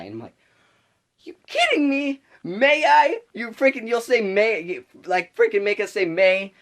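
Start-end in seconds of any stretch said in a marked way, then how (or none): 1.2-6.5 loud, high-pitched incredulous outburst; outraged disbelief. Retold or imitated. Student fuming at being made to say may, outraged disbelief. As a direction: blurt it out, exasperated and squeaking high. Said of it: "really pissed me off".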